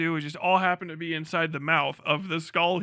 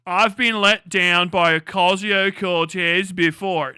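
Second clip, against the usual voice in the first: slow, louder mock complaint, hamming up a disappointed fan; mocking whine; 6 dB louder, slower than usual. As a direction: drag it out like a sarcastic parody of a fan.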